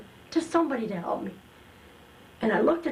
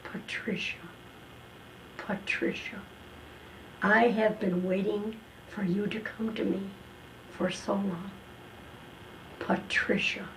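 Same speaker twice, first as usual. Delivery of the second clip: voice of God; 5 dB quieter than usual. Retold or imitated. A divine voice calling Patricia to quit drinking, soft and hushed. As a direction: call her gently from far away. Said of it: "And that voice said".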